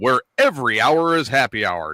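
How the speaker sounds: lightly voiced pitchman read; infomercial voice. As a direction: sell it like a late-night ad. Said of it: "my infomercial voice going here".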